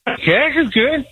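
a famous country singer's voice. Shown as a demonstration. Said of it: "Which one?".

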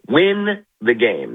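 slow, drawn-out WIN; emphatic repeat. Real, not acted. Guest repeating his advice to the team, slow and emphatic. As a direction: stretch "Win the game" out deliberately.

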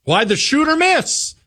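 high, sneering parody voice; mock them like a whiny caricature; high-pitched parody of a Democrat. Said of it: "This is normal Democrat talk now".

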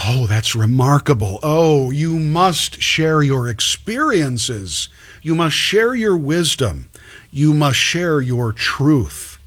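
slow, fawning imitation of a rich liberal; lightly voiced gushing admirer; mock gushing donor. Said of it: "some wealthy leftist or some college".

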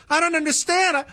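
very high, whiny parody; mocking whiny voice. Host mimicking fired posters, shrill high mock whine. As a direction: play the baffled, indignant poster. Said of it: "and people said".

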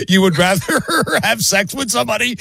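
high, laughing question; laughing in disbelief. Real, not acted. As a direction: crack up while asking. Cracks up at the caller's complaint.

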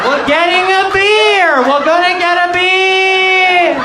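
hammed-up excited friend; buddy's overeager answer. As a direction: blurt it out like he's thrilled all over again. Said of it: "And he's like".

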